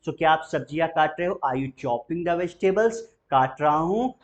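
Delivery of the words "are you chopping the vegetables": very slow, alms without the L; slow model question. Shown as a demonstration. Teacher models the question and silent L, very slow. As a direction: spell it out slowly. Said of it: "बोलते चलना".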